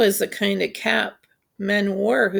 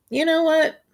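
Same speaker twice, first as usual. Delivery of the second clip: whisper; 9 semitones higher than usual. Acted. Man speaking to hidden boy.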